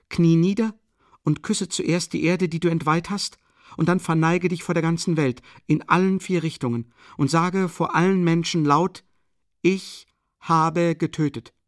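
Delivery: high, loud, impassioned exhortation; fervent urging. A narrator's reading. Sonja urging the killer to confess publicly, fervent. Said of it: "ihre plötzliche Begeisterung".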